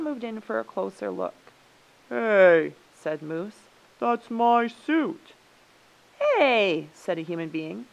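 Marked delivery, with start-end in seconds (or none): 2.1-2.7 loud indignant "hey"; sharp, loud objection; indignant call. A narrator's reading. Moose spots his suit. 4.0-5.3 loud, high and drawn out; outraged owner calling out; indignant claim. A narrator's reading. Moose claims his suit. 6.2-6.9 high, loud "hey"; raised-voice objection; indignant call. A narrator's reading. Human spots own dress.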